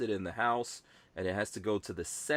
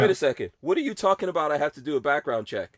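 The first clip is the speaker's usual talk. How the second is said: mock indignant buyer; 4 semitones higher, 4 dB louder, faster than usual. Mocking buyers at store.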